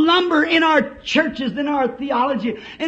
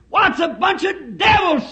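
theologians' outburst; 4 semitones higher than usual. Acted. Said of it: "said the theologians".

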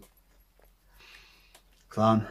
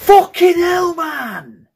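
loud, high cry of fright; startled shout; 11 semitones higher, 8 dB louder, much slower than usual. Real, not acted. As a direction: yell it out after a real scare. Another jump scare.

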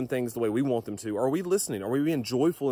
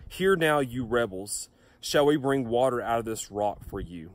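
harsh rebuke. Acted. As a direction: bark it at the rebels like an angry leader. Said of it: "he speaks rather harshly".

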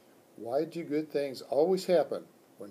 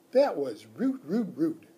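louder, outraged little squeaks; indignant squeak; 3 semitones higher, 6 dB louder than usual. Acted. Hamster outraged at the rude kids, indignant squeak. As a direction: scold it like a tiny offended pet. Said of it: "I squeaked".

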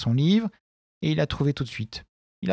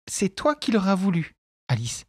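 mild cry; 6 semitones higher than usual. A narrator's reading. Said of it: "s'écria la mère".

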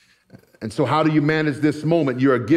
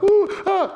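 mock soft crying. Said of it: "my grandma wasn't just a crier".

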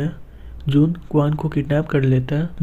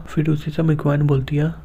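ordinary delivery

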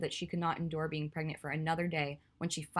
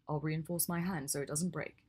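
smirking. Acted. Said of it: "he said with a smirk".

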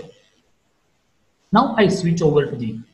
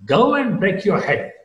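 rise-fall on "Go", higher pitched; haughty swing on "Go"; haughty dismissal; 4 semitones higher than usual. Shown as a demonstration. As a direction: send them off, arching "Go" up and down. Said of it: "you express this kind of haughtiness".

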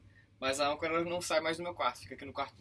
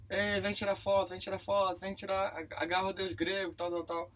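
calling out; 5 semitones higher than usual. Retold or imitated. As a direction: call out to the crowd. Chamando passageiros na gangway. (chamando em voz alta)

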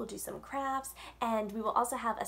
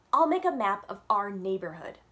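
put-on louder, bouncy little-girl announcement; eager plan; 7 dB louder than usual. Yasmin clapping and announcing her map plan, louder and eager. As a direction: blurt out the idea happily.

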